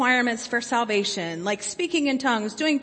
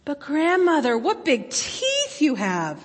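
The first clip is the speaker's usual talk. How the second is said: slightly quivering voice; 5 semitones higher, 3 dB louder than usual. Acted. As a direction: let the voice quiver a little. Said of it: "her voice quivering slightly".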